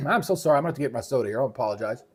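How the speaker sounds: throat a bit rough from a frog. Real, not acted. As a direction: talk past a frog in the throat. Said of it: "A little frog in the throat won't go away".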